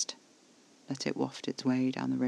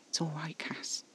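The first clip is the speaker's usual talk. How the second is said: soft, hushed reassurance; calm him gently, almost whispering; soothing; 3 semitones higher, 7 dB quieter than usual. A narrator's reading. Comforting trembling Casper, soothing.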